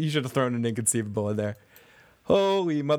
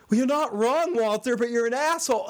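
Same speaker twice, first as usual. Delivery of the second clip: imitating someone; 8 semitones higher than usual. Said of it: "they're like".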